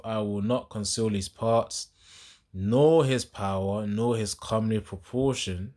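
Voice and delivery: slow, weighty verse reading; scripture reading. Acted. Preacher reads verse twelve to listeners, slow emphatic scripture reading. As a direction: draw out each phrase of the verse.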